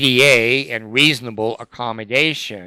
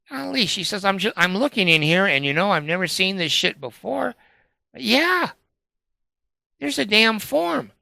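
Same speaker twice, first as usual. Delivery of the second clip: high-pitched imitation of an excited clerk; amazed discovery; 9 semitones higher than usual. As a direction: act out her astonished find in a much higher voice.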